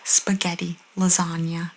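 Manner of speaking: spaghetti, lasagna with put-on Italian sounds; mock Italian accent. Showing what annoys people, mock Italian accent. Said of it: "crazy accent. Not just Italian".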